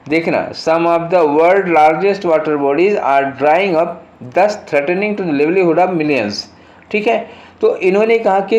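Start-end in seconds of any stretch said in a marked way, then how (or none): 0.5-6.3 reading the sentence very slowly, word by word; slow dictation read. Shown as a demonstration. Teacher reading the question sentence to students, very slow and deliberate. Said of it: "reads the exam sentence aloud".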